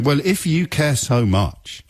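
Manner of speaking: high, slow, drawn-out taunt; mocking right-wing ghoul. Host plays a right-wing critic taunting him, mocking. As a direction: sneer it as a mock opponent. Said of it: "a right-wing ghoul".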